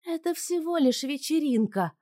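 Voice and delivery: put-on high, loud teenage protest. A narrator's reading. Daughter protesting to her mother, high whine. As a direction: push back like a sulky teen.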